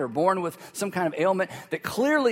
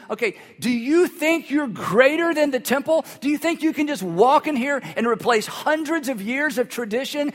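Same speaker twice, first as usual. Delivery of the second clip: higher and louder, outraged questioning of Jesus; indignant objection; 5 semitones higher, 4 dB louder than usual. Acted. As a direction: voice the scandalized critics, pressing hard. Objecting religious leaders voiced.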